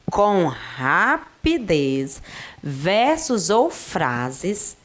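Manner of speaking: slowed right down, word by word. Shown as a demonstration. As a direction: spell it out slowly for the class. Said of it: "ela coloca que é um jogo".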